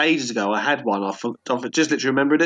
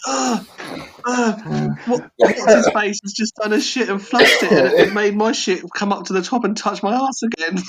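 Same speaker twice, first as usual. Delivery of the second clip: disgusted bloke; 5 semitones higher than usual. Retold or imitated. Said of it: "they were like".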